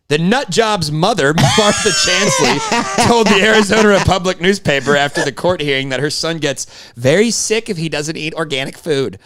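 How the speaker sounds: punchy, emphatic tabloid news read. Acted. Co-host reads his favorite tabloid's story in an emphatic news voice. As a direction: deliver the tabloid copy like an anchor. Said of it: "I got that fucking news voice".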